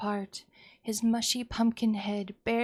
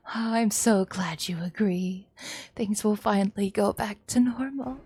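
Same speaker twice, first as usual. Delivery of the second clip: sweetly menacing mother; 2 semitones higher, 3 dB louder than usual. Acted.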